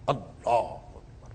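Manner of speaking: awed murmur. Real, not acted. Awe at God calling Musa.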